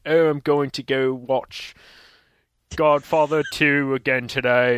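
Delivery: mock upper-class British snob voice; fake British accent. Mocking snobby film fans in a fake British accent. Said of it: "fake British accent".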